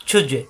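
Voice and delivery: ছুজে with a bounced release on the j; short echoing pop after the j of ছুজে; qalqalah bounce. Shown as a demonstration. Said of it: "জিম থাকেন কলকলা".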